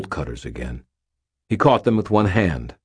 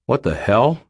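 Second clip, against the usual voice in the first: higher-pitched, rising question; startled disbelief; 7 semitones higher, 4 dB louder than usual. A narrator's reading. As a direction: ask it in baffled disbelief. Startled Daniel questions what he sees.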